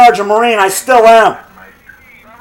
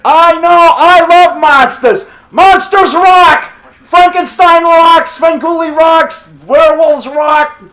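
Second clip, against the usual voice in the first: excited; 4 semitones higher, slower than usual. Real, not acted. Gushing about monsters.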